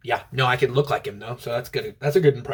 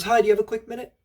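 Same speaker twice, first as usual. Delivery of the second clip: نبرة جادة; 8 semitones higher, faster than usual. Retold or imitated. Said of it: "in a dead serious tone".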